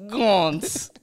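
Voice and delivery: drawn-out mock Southern accent; plantation Southern accent. Shown as a demonstration. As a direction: stretch the word in a Southern drawl. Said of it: "from, like, the plantation?".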